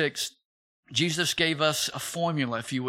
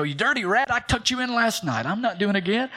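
mock scolding; 5 semitones higher than usual. Mock scolding his kids.

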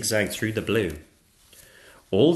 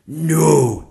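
loud, higher teacher's no; correcting dragon teacher; 7 semitones higher, 11 dB louder than usual. Acted. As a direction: correct the class firmly and loudly.

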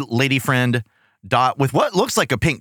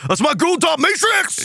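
excited; slower than usual. Real, not acted. Excited toy reveal.

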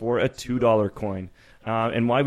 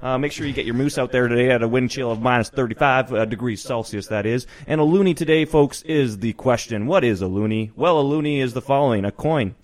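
a touch of hammed-up radio host, louder; mock Canadian show host; 4 dB louder than usual. Host greeting American listeners as jovial Canadian announcer. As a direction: play a hearty Canadian TV host, eh. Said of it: "define a loony and toonie for our American listeners".

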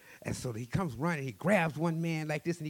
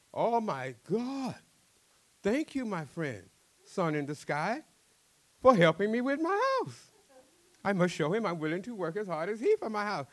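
loud grateful cry; 8 semitones higher, 6 dB louder than usual. Acted. Fisherman thanks the sun.

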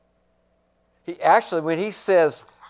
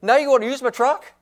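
higher, fast incredulous question; mock outraged; 6 semitones higher, 4 dB louder, faster than usual. Believer to friend wanting the truck, fast incredulous. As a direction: play up the disbelief. Acted quarrel over the truck.

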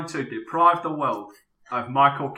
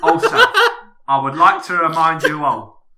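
lightly voiced Cockney actor; a touch of London film star; Michael Caine impression. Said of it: "can we just get you to do that one more time".

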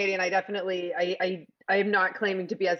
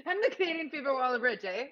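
higher Canadian pitch line with a tagged-on "eh"; playful Canadian accent; 4 semitones higher, 3 dB quieter than usual. Shown as a demonstration. Guest redoing elevator pitch for host, playful Canadian accent. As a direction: play up the Canadian with a closing "eh?".

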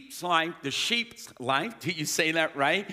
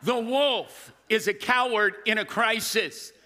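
said again higher and louder to the other side; repeated with more force; 4 semitones higher than usual. Shown as a demonstration. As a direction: turn and preach it out. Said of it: "I'ma say that over here".

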